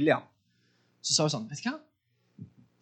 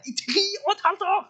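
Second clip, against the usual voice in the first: I tre og et halvt år, rushed and much higher, rising at the end; rushed high exclamation; 11 semitones higher, faster than usual. Shown as a demonstration. Preacher says again to the congregation how long it lasted, fast and high. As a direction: toss it out fast and soaring. Repeats the span for emphasis.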